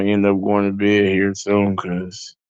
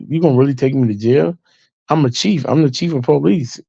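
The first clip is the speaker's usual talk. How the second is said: indignant protest; 5 semitones higher than usual. Retold or imitated. Drunk chief protesting arrest.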